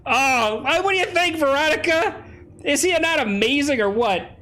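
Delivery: high-pitched, delighted gushing. Real, not acted.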